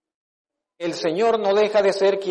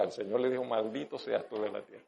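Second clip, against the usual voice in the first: put-on said low so the child won't repeat it; 7 semitones lower, 13 dB quieter, faster than usual. Shown as a demonstration. Quiet, hushed reading. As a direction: pastor lowers his voice on the curse verse. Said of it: "por eso lo digo en voz baja".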